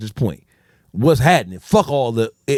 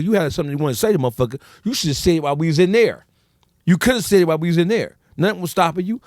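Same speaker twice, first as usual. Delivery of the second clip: higher, scornful dressing-down; scornful rant; 5 semitones higher than usual. Retold or imitated. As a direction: tear into him for calling the police. Friend calling the stranger a rat.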